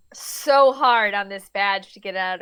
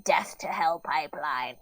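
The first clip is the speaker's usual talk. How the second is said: whispering; 9 semitones lower, 8 dB quieter than usual. Acted. Demon boss muttering plan.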